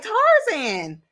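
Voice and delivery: hammed-up Tarzan talk, slow and high; caveman Tarzan. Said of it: "they was like".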